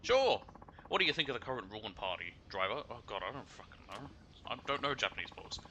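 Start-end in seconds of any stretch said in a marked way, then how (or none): 0.0-2.8 excited Kansai lady. Acted. Passenger excited.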